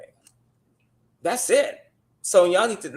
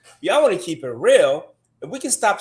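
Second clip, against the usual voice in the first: If y'all wanna keep it real said louder, worked up; a louder, heated second try; getting fired up; 2 semitones higher, 5 dB louder than usual. Real, not acted. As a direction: restart the line louder now he's started. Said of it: "see, now you got me started".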